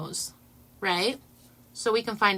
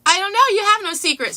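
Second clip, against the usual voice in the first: quoting her; 11 semitones higher, 10 dB louder, faster than usual. Retold or imitated. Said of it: "and then he's like".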